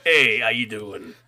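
hammed-up chummy cat; casual cat greeting. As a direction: play the cat as an easygoing guy. Voicing the talking cat.

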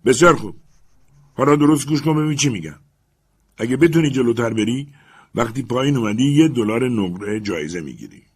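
coaxing master. Acted. Legrand bribes.

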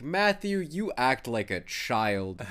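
slow, deliberate blunt friend voice; lightly voiced blunt boss; Markiplier impression. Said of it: "was like".

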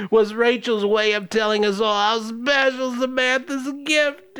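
milk each pause like a soap opera; melodramatic grandma. Acted. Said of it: "Scenery sufficiently chewed".

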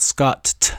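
"Scott" with an exaggerated, popped final T; "Scott" ending on a separate, spat-out T; mispronounced Scott. Shown as a demonstration. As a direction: hit the last T of "Scott" hard. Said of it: "so many people pronounce it".

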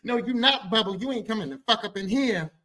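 high, sassy refusal; imitated sassy objection; sassy boyfriend. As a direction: bar the door with full attitude. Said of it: "he got all sassy like this".

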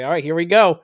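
loud, botched Australian that slips into Scottish; attempted Australian accent. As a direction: call it out in a bad Australian accent. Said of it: "that was more Scottish there".

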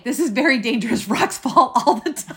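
put-on light Icelandic accent, quick; a hint of an Icelandic guide. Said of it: "I cannot say it in an Icelandic accent at all".

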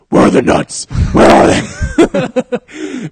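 very loud shout, last words stretched; hammed-up yelling. Actor voicing the raccoon, hammed-up yell. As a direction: bellow it as an overblown take. Acted raccoon role, yelled take.

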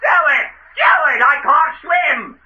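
high panicked shouting from the water; desperate high yell, stretched at the end; panicked plea. Acted. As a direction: beg for the rope as if drowning. Drowning man begs for rope.

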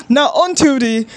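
lightly faked newscaster read of now on to the; anchor-style segue, half-hearted; news anchor voice. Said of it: "trying to do the American news anchor voice".

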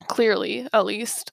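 words blurred by a retainer; wearing a retainer. Real, not acted. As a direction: retainer in, a bit lispy. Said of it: "it's getting harder for me to talk".

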